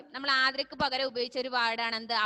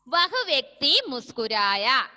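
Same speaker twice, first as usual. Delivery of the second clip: slow dictation; 6 dB louder, slower than usual. Shown as a demonstration. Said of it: "simple ആയ sentence ആണ്".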